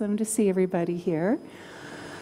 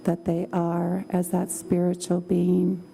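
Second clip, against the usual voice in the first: calm, slow meditation voice; guided meditation; slower than usual. Acted. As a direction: guide them gently into calm.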